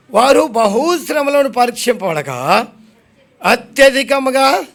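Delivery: slow, measured verse reading; scripture reading. Real, not acted. Preacher reading scripture to the congregation, slow and measured. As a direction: read the verse out slowly, word by word.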